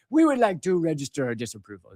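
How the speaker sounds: hammed-up British official; mock British accent. Host voicing Russia and China's disapproval, in a mock British accent. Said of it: "giving them a British accent".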